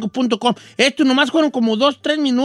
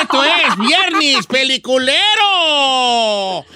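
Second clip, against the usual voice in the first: slow, laughing shout of the show name; excited announcer; 3 semitones higher, much slower than usual. Real, not acted. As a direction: proclaim it with a laugh. Anuncia el programa. (anuncio gritado entre risas)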